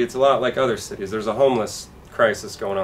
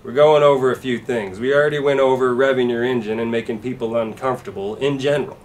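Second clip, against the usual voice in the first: louder, pushy salesman pitch; truck salesman; 3 semitones higher, 5 dB louder than usual. Retold or imitated. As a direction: sell it like a hyped car dealer.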